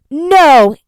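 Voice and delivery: high, loud cry of refusal; desperate shout. Acted. Enoch struggling against his captors, shouting no. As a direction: fight back with your voice.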